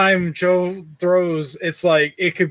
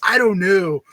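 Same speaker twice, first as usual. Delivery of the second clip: impression. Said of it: "doing some impression".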